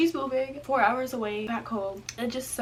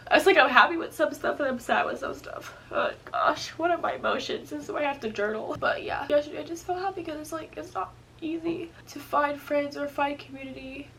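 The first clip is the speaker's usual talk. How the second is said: tearful; 5 semitones higher than usual. Real, not acted. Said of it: "Why am I crying?".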